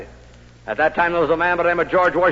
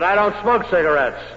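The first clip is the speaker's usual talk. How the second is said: firmly raised voice, retold; rather loud; 5 semitones higher, 4 dB louder than usual. Salesman refusing the boss's cigarette, rather loud. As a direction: push back a bit louder. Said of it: "in a rather loud tone of voice".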